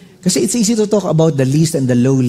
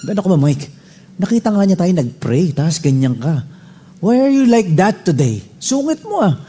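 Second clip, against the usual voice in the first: imitating wife scolding; 5 semitones higher than usual. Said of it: "pinagalitan ho ako ng aking misis".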